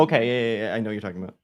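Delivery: ordinary talk, nothing marked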